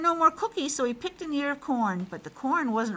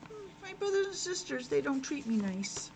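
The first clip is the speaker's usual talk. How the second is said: thinking sadly; 5 semitones higher, 7 dB quieter than usual. Acted. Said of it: "He's thinking".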